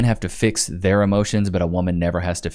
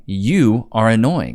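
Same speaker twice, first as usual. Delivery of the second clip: shout; slower than usual. Acted. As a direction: yell each word at her. Commentator yells at wife.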